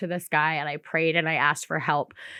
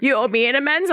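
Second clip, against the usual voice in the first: confused stranger; 8 semitones higher, 4 dB louder, faster than usual. Retold or imitated.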